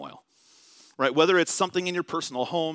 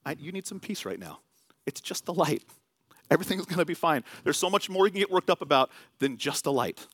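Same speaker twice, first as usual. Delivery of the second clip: gentle reassurance. Retold or imitated. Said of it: "he told me".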